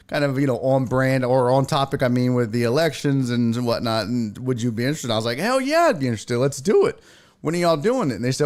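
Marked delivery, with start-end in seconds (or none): 5.4-8.2 bright, keen reply, much higher; retold eager yes to the TV gig. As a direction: jump at the offer.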